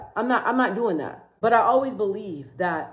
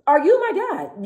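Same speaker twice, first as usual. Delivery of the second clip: higher, slowed and drawn-out sarcastic repeat; slow mock indignation; 8 semitones higher, slower than usual. Repeating it to the critics, slow high sarcastic jab. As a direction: let the sarcasm sink in slowly. Repeating the retort more slowly.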